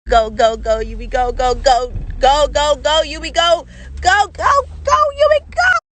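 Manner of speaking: loud chant of go, rising to a squeal; frantic go go go rising to a cry; excited urging. Real, not acted. Urging animal to go.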